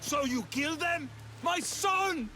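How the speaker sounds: loud, high, anguished mother's wail; grieving scream. Acted. Grieving mother's spirit screams at her son's killer. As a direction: scream your loss at him.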